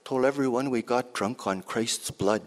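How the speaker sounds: lightly voiced lively old auntie; auntie's voice. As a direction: tell it as your auntie would. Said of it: "this piece is in my auntie's voice".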